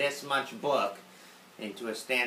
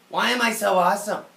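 mock boast; 7 semitones higher, 7 dB louder than usual. Boasting self.

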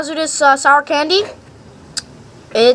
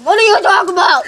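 surprised shout; 3 semitones higher than usual. Real, not acted. Sour candy shock, shouting.

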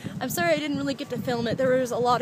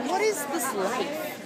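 high and slow, lifting the end; high, wondering; 4 semitones higher, slower than usual. Shown as a demonstration. To herself after meeting the actor, high awed question. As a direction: ask it up high, drawn out in awe. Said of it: "said twice, differently".

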